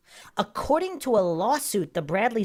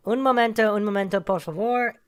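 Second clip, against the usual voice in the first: frantic; 2 semitones higher, 4 dB louder than usual. A narrator's reading. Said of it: "quickly, frantically waving".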